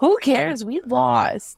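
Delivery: put-on pouty, high toddler-like whine. Describing the season's notes, voicing their reaction in a mock whiny voice. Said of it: "it'll cue a whiny voice and it's like".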